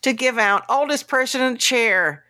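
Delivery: high, drawn-out presenter's introduction; mock awards announcer. Host announcing a celebrity presenter at an awards show, mock grand. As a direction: build up the name like a show host.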